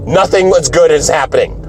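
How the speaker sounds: mildly shouted objection; retold protest. Retells protesting at the cheering.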